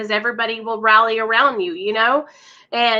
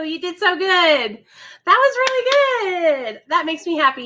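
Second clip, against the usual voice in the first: emotional; 5 semitones higher than usual. Real, not acted. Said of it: "Sorry, I get emotional".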